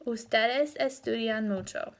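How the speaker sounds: "Ustedes estudian mucho" settling down at the end; statement intonation. Shown as a demonstration. Teacher quizzing students by intonation, "mucho" falling as a statement. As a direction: let "mucho" drop as a fact. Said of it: "that would be a statement".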